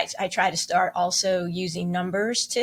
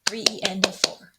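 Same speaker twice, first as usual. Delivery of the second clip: counting along. Shown as a demonstration. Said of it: "clap with me".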